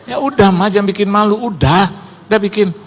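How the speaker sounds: mildly exasperated re-enacted plea; retold impatience. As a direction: act out an embarrassed husband's insistence. Retold husband pressing embarrassed wife.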